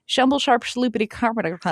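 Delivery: quick mock mumble of nonsense; mumbled verse. Reading a card's Bible verse that will not register, mumbled. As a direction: rattle it off as garbled scripture. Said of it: "specifically the mumbling".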